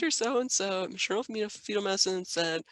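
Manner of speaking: lightly voiced professor; a hint of an authoritative lecturer. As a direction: recite it like a professor, only lightly put on. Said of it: "put on my, like, professor voice".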